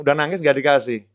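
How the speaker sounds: usual speaking voice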